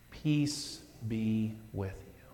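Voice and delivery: soft and slow; gentle blessing. Retold or imitated. Jesus to the disciples, gentle and slow. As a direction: say it as a gift. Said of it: "and he says".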